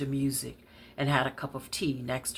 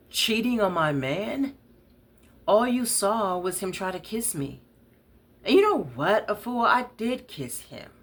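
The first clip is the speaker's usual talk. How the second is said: higher, loud and challenging; defiant; 7 semitones higher, 3 dB louder than usual. Acted. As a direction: throw it back at her defiantly. Aubrey defiant at Afua's accusation.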